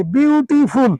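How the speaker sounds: বিউটিফুল with a hard t in the middle; wrong Bengali-style pronunciation. Shown as a demonstration. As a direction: say বিউটিফুল as biu-ti-pul, syllable by syllable. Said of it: "আমি ভুলটা বলবো". (বিউটিফুল-এর ভুল বাঙালি উচ্চারণ, শক্ত ট)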